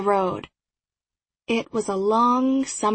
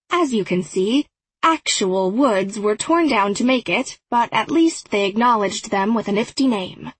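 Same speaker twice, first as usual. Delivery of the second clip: docent voice. Acted. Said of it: "my best imitation of Toby's docent voice".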